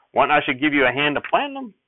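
high, loud folksy aw-shucks; bashful sheriff. Acted. Sheriff waves off Mother's thanks in a bashful folksy voice. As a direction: brush off the thanks like a shy country lawman.

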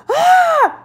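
short high-pitched "Ah!" scream; re-enacted scream of fright; imitated scream. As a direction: let out a sudden, high shriek. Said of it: "and I scream".

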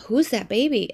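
put-on whispered little girl's question; hushed kid voice asking who; child's whisper. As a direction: breathe it like a curious toddler.

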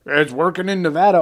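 sarcastic retort, imitated. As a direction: scoff it as a mocking imitation. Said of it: "all sarcastically".

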